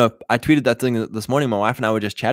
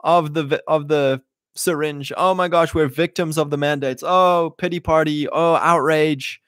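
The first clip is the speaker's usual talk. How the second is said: mock outraged victim; 5 semitones higher than usual. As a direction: ham up a hand-wringing news victim, pitched up. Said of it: "We don't watch the news and go".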